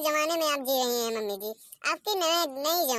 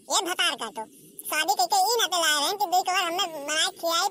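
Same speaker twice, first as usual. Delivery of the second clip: lightly raised, aggrieved saas; ranting mother-in-law; 4 semitones higher than usual. Acted. Mother-in-law ranting about why son married, aggrieved. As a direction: complain like a wronged mother-in-law.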